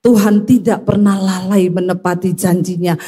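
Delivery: measured, level recital of scripture; even, assured quoting; scripture quote. Retold or imitated. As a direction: answer the doubters with a steady Bible verse. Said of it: "Tapi ingat Alkitab berkata".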